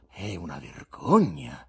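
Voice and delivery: slow, emphatic verdict; passing sentence. A narrator's reading. Guest judging the poet's brawl, sententious. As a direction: pronounce it slowly, stressing the disgrace. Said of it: "sentenziò l'ospite".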